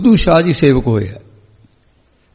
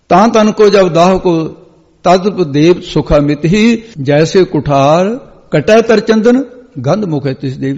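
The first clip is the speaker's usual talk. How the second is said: slow, measured scripture verse; verse recitation. Acted. Preacher quotes a verse on saints to the congregation, slow recitation. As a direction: recite the couplets with drawn-out phrases.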